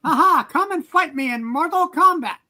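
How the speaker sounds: barbarian. Acted. Plays Skeletor villain taunt.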